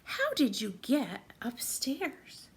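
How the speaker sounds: slow unvoiced whisper. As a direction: whisper gently to the found bear. Watchman speaks to found bear.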